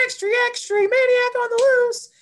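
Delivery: put-on squeaky kid newsboy shouting headlines; high-pitched town crier. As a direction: crank it way up like a little paperboy calling out. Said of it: "his really high-pitched, you know, kid town crier".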